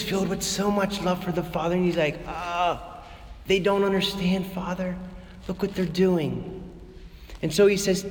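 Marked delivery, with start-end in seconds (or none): 2.3-6.6 pained and hushed, barely above a breath; hurting, soft plea. Retold or imitated. Jesus softly grieving to the Father over the temple. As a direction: sound wounded, not angry, hushed. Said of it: "He was hurting".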